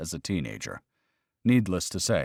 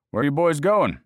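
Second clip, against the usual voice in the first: gruff warden challenge; 8 semitones higher, 6 dB louder than usual. Acted. Game warden confronts them.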